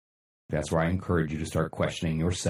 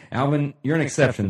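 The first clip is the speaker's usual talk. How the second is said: excited shout-out; 8 semitones higher, 6 dB louder than usual. Real, not acted. Calling out to a viewer.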